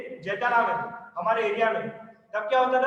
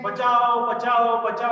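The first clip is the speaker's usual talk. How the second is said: loud call of बचाओ, बचाओ, played for laughs; teacher's joking shout of बचाओ; mock cry for help; 6 dB louder, slower than usual. Shown as a demonstration. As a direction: shout बचाओ like someone in trouble, half in jest. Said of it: "कैसे चिल्लाएंगे".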